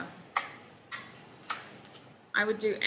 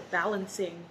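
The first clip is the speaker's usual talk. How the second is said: words stretched by a yawn; 3 dB quieter than usual. Real, not acted. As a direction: yawn through the word. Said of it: "I'm yawning now".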